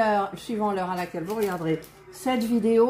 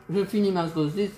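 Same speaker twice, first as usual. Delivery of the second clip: mouth full. Real, not acted. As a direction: still chewing, mouth full. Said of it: "que j'ai dans la bouche".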